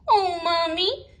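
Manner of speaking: put-on high, eager little girl; a child tugging at her mother's sleeve; lightly voiced excited girl. A narrator's reading. Girl character voiced in story.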